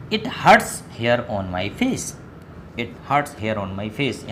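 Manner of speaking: very slow English; slow model sentence. Shown as a demonstration. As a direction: stretch it out for learners. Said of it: "इसको चोट लगी है".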